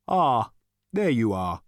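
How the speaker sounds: slow, lightly ethereal greeting; drawn-out, airy recognition; Gargravar. A narrator's reading. Voice finding Zaphod at the bottom, airy. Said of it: "said the voice suddenly".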